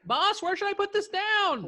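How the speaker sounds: very high, loud comic worker voice; slow, squeaky-high delivery-person shout; courier calling out. Acted. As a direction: yell it to the boss, drawn out. Player acts courier calling to boss.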